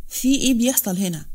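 angry voice. Acted. Master of the house asks about the noise, angry. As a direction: demand an answer, annoyed. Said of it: "كان صوته الغاضب".

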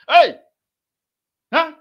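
a gleeful laughing hey, like catching someone out; mocking laugh. Real, not acted. Commentator laughing at the debater's trap, mocking laugh.

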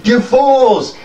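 put-on high, loud old goblin snarl; old goblin cursing the youngsters, high and loud; furious old goblin. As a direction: spit it out at the fools. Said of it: "voiced goblin".

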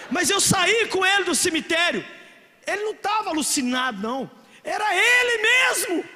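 loud, high preaching with a laugh; full-force preaching. Real, not acted. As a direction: shout the point home to the crowd.

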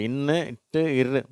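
இன்னு, இட்டு, இரு one sound each; sounds separated. Shown as a demonstration. Teacher breaking a cluster into three sounds, separated sounds. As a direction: split n, t, r into separate beats. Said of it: "மூணு சவுண்டும் சேர்ந்து".

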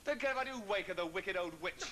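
high, heated start sinking to bitter insult; indignant outburst, falling in pitch; angry defiance. Acted. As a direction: defy the warning, then curse her. Defiant about waking the aunt.

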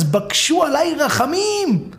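slow, high begging plea; slow, high plea for mercy; pleading for mercy. Acted. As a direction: drag the words out, begging. Begging heaven and earth for mercy.

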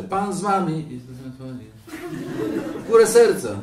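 loud, high priestly intoning; priest's liturgical call. Acted. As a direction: call it out to the whole congregation. Mimics loud liturgical calls to congregation.

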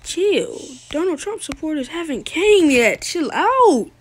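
mock calming. Telling the other to calm.

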